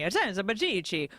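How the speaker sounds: slow, drawn-out Italian word; imitating Italian pronunciation; Italian accent. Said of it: "he would talk in Italian".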